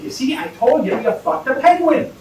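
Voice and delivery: high, loud gotcha yell; triumphant leprechaun. Acted. Leprechaun shouts the punchline at his friend. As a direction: jump up and crow it out.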